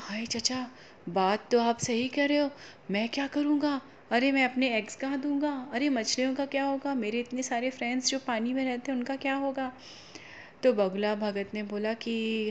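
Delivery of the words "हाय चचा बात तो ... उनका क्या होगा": worried crab. Acted. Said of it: "केकड़ा तो बिल्कुल परेशान हो गया".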